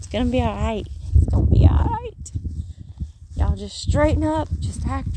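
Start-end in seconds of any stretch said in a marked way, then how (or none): 1.1-2.3 much higher, louder squeaky reassurance; high playful voice. Pretend. Reassuring viewers again, now in a high squeaky voice. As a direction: sing it up high like a cartoon comforter.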